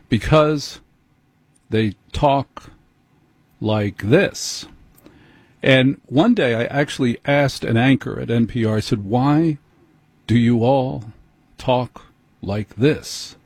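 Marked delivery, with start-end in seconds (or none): 0.1-4.7 halting, with long pauses between phrases; spoon-feed it slowly, pausing after every few words; mock NPR delivery. Host mocking how NPR anchors talk, slow and halting. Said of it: "needs to be spoken to slowly". 9.0-13.4 drawn-out words with deliberate gaps; mock NPR delivery. Host teasing an NPR anchor about her speech, slow and halting. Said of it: "needs to be spoken to slowly".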